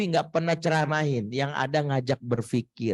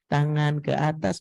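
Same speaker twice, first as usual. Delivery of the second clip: kindergarten voice. Shown as a demonstration. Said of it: "Coba sama mahasiswa gini".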